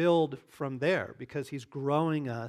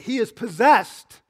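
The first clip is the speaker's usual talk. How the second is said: accusing; 6 dB louder than usual. Acted. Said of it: "to Jerusalem and said".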